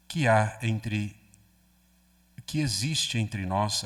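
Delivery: slow, measured scripture reading; Gospel reading. Acted. Priest reading the Cana passage to the congregation, slow and solemn. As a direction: read the Gospel aloud with solemn pauses.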